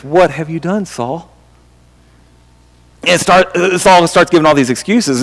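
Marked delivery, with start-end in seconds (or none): 0.0-1.3 softly asked, fading almost to nothing; a hushed, grave question to a guilty king; Samuel, quiet rebuke. Retold or imitated. Prophet Samuel quietly confronting Saul over the offerings. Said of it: "And Samuel says".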